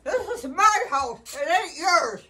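angry insistence. Real, not acted. Grandma claiming her own house, angry insistence. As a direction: lay down the law, drawn out. Asserting ownership in quarrel.

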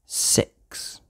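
slow hushed whisper. Acted. Reader whispering about the hungry cows. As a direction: whisper it slowly.

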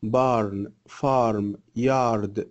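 "barn", "farm", "yard" each with a heavy back A; thick AR vowel. Shown as a demonstration. Teacher drilling AR examples, thick vowel on each word. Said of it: "يبقى هي بتتنطق آ".

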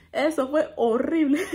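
slow, drawn out into a laugh; amused dismay. Real, not acted. Summing up the fall to viewers, amused dismay. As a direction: stretch it out, then laugh.

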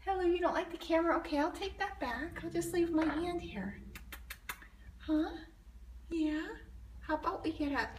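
high, sing-song coo to a shy cat; gentle high pet voice. Real, not acted. Coaxing the cat with treats.

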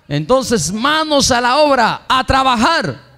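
high, slow, solemn proclamation; prophetic voice of God. Acted. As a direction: announce the promise like a prophecy. God's prophetic word through wife.

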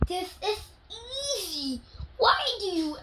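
high laughing lines. Acted. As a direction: laugh through the words, amused.

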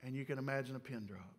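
low, soft storytelling with long pauses; hushed suspense. Acted. Preacher placing listeners at the silent tomb, hushed suspense. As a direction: let silence hang between phrases.

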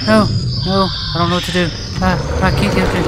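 high, loud, frantic and helpless; panicked babble under attack; real panic. Real, not acted. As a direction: flail for a way out in panic.

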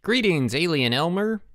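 put-on high-pitched boy's proclamation; messenger boy in mock-formal greeting. A narrator's reading. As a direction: announce it high, like a little herald.

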